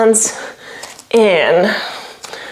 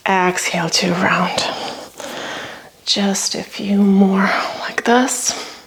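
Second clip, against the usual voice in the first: whispering; 5 dB quieter than usual. Real, not acted. Guiding breathing, softly.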